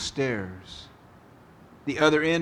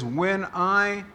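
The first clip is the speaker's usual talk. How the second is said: reading the psalm; slower than usual. Retold or imitated. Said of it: "King David says".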